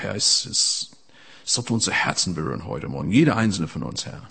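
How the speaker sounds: a hushed, devoted prayer. Acted. Prays aloud after announcing prayer.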